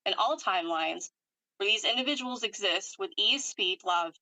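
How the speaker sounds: measured incantatory list, item by item; formal energy healer's recitation; ritual clearing command. Real, not acted. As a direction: recite a healing decree in even phrases.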